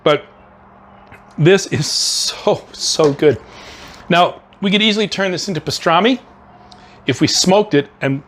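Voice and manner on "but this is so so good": slow, savoring with mouth full; chewing through the words. Real, not acted. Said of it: "forgive me for talking with my mouth full".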